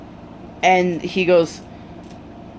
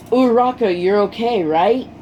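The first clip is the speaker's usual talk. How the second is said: higher-pitched, retold anxious question; urgent check-in; 4 semitones higher, 3 dB louder than usual. Deku checking that Uraraka is okay, urgent check-in. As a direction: call her name high, then ease into the question. Acted check on classmate after the exam.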